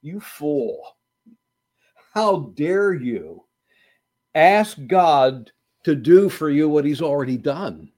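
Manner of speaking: a mild scolding voice of the soul; stern inner voice. Acted. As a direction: rebuke him gently but firmly. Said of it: "hear a voice in his soul".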